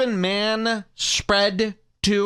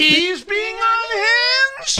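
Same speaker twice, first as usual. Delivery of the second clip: very high, drawn-out incredulous yell; slow, soaring outburst of disbelief; incredulous shout; 4 dB louder, much slower than usual. Real, not acted. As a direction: shriek the question in disbelief. Host's outraged reaction to clip.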